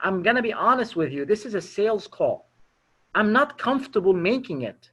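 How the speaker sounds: frank, unforced admission; disarmingly honest. Shown as a demonstration. Caller tells prospect it's a sales call, disarmingly honest. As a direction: own up to the caller's discomfort plainly. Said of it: "we call this being disarmingly honest".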